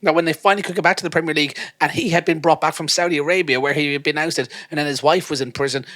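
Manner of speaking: high, insistent incredulous tirade; hyped fan rant. Acted. Fan listing his hero's absurd career, high and incredulous. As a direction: reel off the career highlights dramatically.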